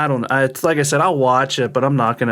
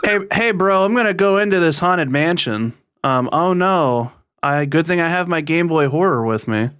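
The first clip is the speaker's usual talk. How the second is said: Luigi impression; 3 semitones higher than usual. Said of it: "This is my best Luigi voice".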